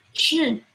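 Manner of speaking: isolated sh, a hushing sound; sh as one phoneme, not spelled letters. Shown as a demonstration. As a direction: sound out sh on its own. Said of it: "el fonema especial S H".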